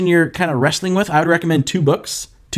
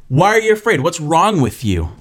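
higher, mock exasperated reproach; scolding, the wrong reading; 3 semitones higher than usual. Shown as a demonstration. Jesus wrongly imagined telling off the disciples, mock scolding. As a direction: scold as if fear were foolish. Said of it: "It wasn't like".

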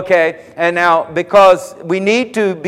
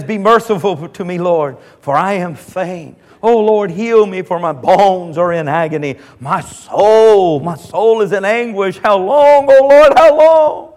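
slow, pleading lament with rising cries; anguished psalm. Retold or imitated. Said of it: "he says".

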